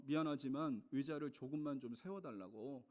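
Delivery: understated, courteous retold request; mildly apologetic, retold politely. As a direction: ask politely, a touch subdued. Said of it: "정중하게 얘기했거든요".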